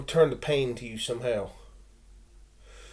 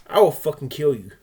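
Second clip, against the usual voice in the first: menacing shout; 8 dB louder, faster than usual. Real, not acted. Threatening anyone who spanks him, shouting.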